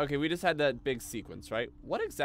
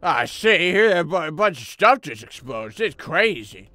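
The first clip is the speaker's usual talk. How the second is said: excited; 4 semitones higher, 15 dB louder than usual. Real, not acted. Explosions in game.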